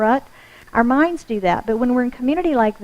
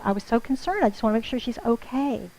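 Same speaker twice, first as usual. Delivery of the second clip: softer, a caring worried tone; concerned, softly; 7 dB quieter than usual. Retold or imitated. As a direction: hush it as heartfelt concern. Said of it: "And she goes".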